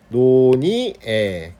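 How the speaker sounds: 논의에 said as no-ni-e; linked, unglided no-ni-e for 논의에; simplified vowels. Shown as a demonstration. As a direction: say 논의에 with plain i, then plain e. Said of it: "이렇게 해도 된다는".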